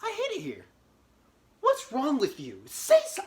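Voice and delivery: high whiny complaint; whiny tantrum. Retold or imitated. Throwing a tantrum at the attorney, high and whiny. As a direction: whine like a sulking kid.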